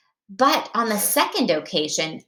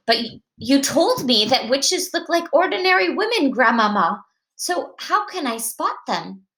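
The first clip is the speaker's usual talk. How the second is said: higher-pitched, lightly acted child; puzzled grandson; 5 semitones higher than usual. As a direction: question Grandmama as a puzzled little boy. Grandson queries grandmother about spotting witches.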